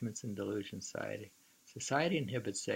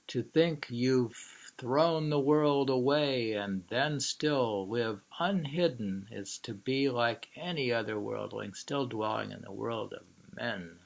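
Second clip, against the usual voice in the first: poem reading. Acted. Reads the poem a third time.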